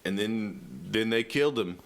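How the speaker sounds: understated deadpan stage delivery; laid-back deadpan. Shown as a demonstration. Comic showing his laid-back stage act, deadpan. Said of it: "I panic a lot more when I'm laid back".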